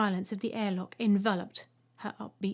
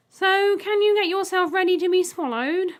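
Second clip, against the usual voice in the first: higher, louder polite robot; 9 semitones higher, 8 dB louder than usual. Acted. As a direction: ask brightly like a polite machine. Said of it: "the egg asked politely".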